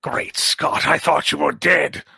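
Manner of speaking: lightly acted shock; astonished exclamation. Doctor finding Flatline alive, mildly astonished. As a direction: exclaim it with a touch of mock amazement.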